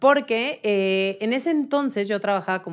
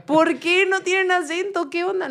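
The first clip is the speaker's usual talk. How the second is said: higher, puzzled outrage at the shirts; mock-indignant, higher question; retold bafflement; 10 semitones higher, 3 dB louder than usual. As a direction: play her disbelief as she watched. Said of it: "y yo".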